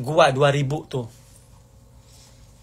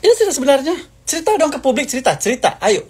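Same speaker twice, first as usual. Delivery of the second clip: taunting challenge; 10 semitones higher than usual. Real, not acted. Daring the former friend before the public, high and taunting. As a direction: dare her to tell the truth.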